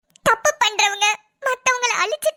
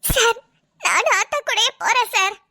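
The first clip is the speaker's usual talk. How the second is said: tearful plea. Acted. Insisting on going with her.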